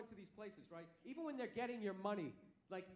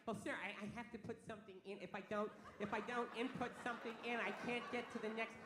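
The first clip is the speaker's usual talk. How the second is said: freaked-out cashier; 4 semitones lower than usual. Retold or imitated. Cashier panicking without a phone number. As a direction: fret like a nervous clerk stuck on the screen. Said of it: "they get, like, all freaked out".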